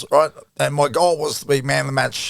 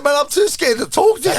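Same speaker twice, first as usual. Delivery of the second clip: laughing; 13 semitones higher, 4 dB louder than usual. Retold or imitated. Own reply, laughing high.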